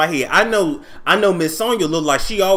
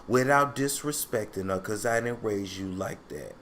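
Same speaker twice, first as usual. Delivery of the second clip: soothing counselor; 4 dB quieter than usual. Retold or imitated. Voicing soothing counselor Iyanla.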